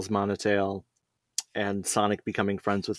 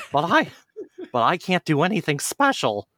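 cried; 7 semitones higher than usual. Acted. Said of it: "cried Miles".

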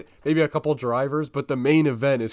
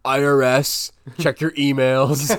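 louder, slowed mock team boss call; louder, slower Horner take on the same line; imitating Christian Horner; 5 dB louder than usual. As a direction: drag out a pushy demand. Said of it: "Christian Horner's like".

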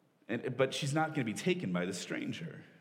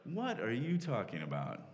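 incredulous; 3 dB quieter than usual. Retold or imitated. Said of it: "kind of incredulous".

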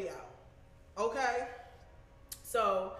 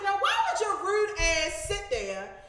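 higher, louder, slow heated rant; angry confrontation; 5 semitones higher, 3 dB louder than usual. Retold or imitated. Confronting the boyfriend about the bags, angry. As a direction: tear into him for not helping. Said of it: "I said".

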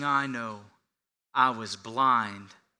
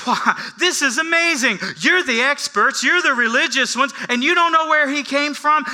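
lightly voiced beggar, higher, needling; mock the experts with wide eyes; mock amazed beggar; 12 semitones higher, 9 dB louder than usual. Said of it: "he goes".

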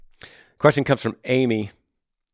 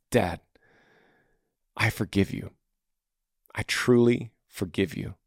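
softer, lower, sincere words to a father; sincere quiet forgiveness; 3 semitones lower, 4 dB quieter than usual. Retold or imitated. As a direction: say it gently as a daily promise. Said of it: "Think if you said this every morning".

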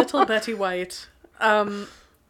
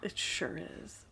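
whispering; 14 dB quieter than usual. Real, not acted. Whispers back in the chat.

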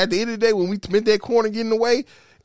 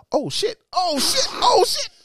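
high, rising alarmed yelps; retold panic; 12 semitones higher, slower than usual. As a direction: repeat it higher, as panic mounts. Retold alarm seeing it in mirror.

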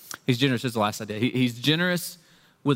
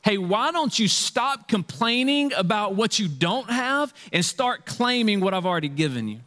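father's voice paraphrased; 6 semitones higher than usual. Retold or imitated. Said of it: "Here's what the father's saying".

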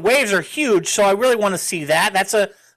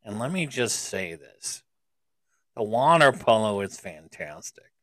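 low, slow, creepy drawl; creepy man voice; 8 semitones lower, 6 dB quieter than usual. Acted. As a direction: purr it out like a creepy guy. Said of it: "why are you saying it like a creepy man right now".

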